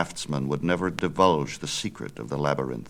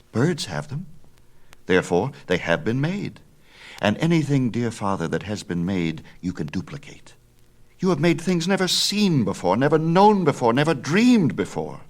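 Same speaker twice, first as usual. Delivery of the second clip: much higher and louder, rising to a rousing close; eager young Icarus; 7 semitones higher, 5 dB louder than usual. Acted. Son flatters his father, higher and louder. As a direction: build him up with excitement.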